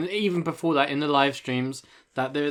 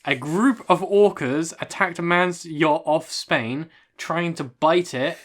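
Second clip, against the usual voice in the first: news article read; slower than usual. Acted.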